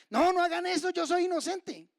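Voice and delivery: imagined protest, high and loud; mock pleading shout. Preacher imagines Stephen begging his stoners, pleading shout. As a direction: cry out innocence in mock desperation. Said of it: "No dice que Esteban estaba llorando".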